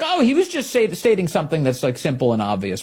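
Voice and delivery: high mocking voice, mimicking Mullin; sing-song high mock of a dismissive excuse; mocking paraphrase. Host mimics Mullin's excuse in a high mocking voice. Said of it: "He's like".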